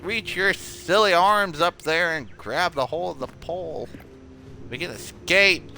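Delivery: rally yourself with a coach's pep; self pep talk. Real, not acted.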